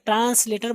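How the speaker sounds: "ट्रांसलेटर" with a sharp s before the l; wrong s-sound demo. Shown as a demonstration. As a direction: say "ट्रांसलेटर" as trans-later, no z. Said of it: "हम लोग गलत पढ़ते हैं".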